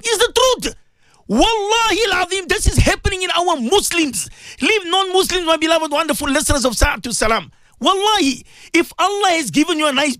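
high, urgent preacher's plea; rising up to preach hard at the listeners; impassioned preaching. Real, not acted. Radio host preaching to listeners, high and urgent.

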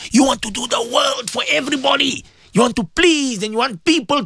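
preaching shout. Real, not acted. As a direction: cry it out like a rebuke from the pulpit. Preacher rebukes listeners.

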